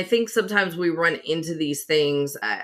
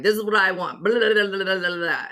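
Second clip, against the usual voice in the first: rapid ordering. Retold or imitated. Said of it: "used to Northern way of ordering things".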